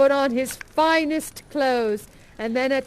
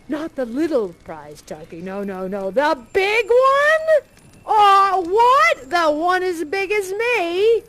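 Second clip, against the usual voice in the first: higher, louder disbelief at the big one; boy stunned by the turkey; astonished young lad; amazed boy; 4 semitones higher, 7 dB louder than usual. Acted.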